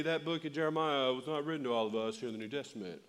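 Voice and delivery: lightly voiced smug objector; a hint of a pedantic church critic; nitpicking objection, lightly mocked; mock know-it-all. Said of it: "some of you go".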